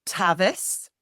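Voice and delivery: syllable by syllable, one at a time; staccato. Shown as a demonstration. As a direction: separate each syllable with a pause. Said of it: "repeat after you syllable by syllable".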